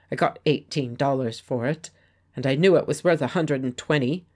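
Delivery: desperate denial through locked teeth. Acted. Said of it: "he spoke through his locked teeth".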